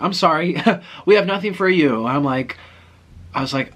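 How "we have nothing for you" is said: higher, louder attempt at Russian accent; badly faked Russian accent. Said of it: "I can't do Russian accent".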